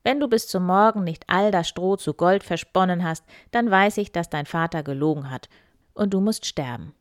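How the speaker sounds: menacing king; threatening king. Acted. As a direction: warn her she will die.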